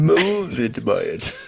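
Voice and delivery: plain; Bane impression. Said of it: "worst Tom Hardy impersonation".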